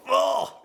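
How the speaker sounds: loud, weighed-down groan of "oh"; burdened "oh". Acted. Guilt stacking up as wife cries, acted groan. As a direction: groan out "oh" as if a load lands.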